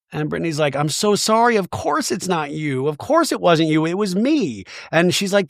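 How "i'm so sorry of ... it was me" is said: higher-pitched retold pleading apology; mildly distressed mock apology; acted apology. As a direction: imitate a mother apologizing earnestly, voice raised in pitch. Voicing mother's tearful apology to daughter.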